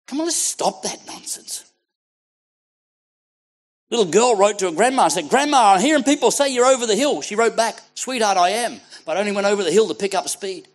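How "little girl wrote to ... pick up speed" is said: raised, higher preacher's voice; lively pulpit storytelling; preaching. Acted. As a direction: tell it out to the whole congregation.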